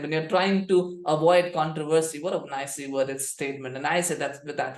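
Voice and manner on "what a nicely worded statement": quieter dry sarcasm; under-the-breath sarcastic compliment; sarcastic, softer. Real, not acted. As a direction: let the mock praise drop off, softer. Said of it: "with all the sarcasm in the world".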